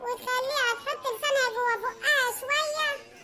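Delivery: guilt-trip your brother for siding with his wife; sister-in-law voice. Acted. Suad reproaches her brother.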